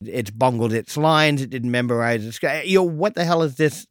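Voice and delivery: ordinary talk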